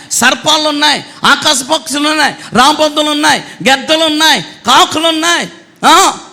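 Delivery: a preachy prophet scolding, building to an accusing shout; self-styled prophet. Retold or imitated. False prophet accusing the officers, rising to a shout. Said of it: "అని ఏమి చెప్పడం మానేసి".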